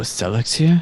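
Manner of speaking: hushed, half-whispered, in character. Asking a companion a secret question in character: half-whispering in character. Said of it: "kind of whisper in common and say".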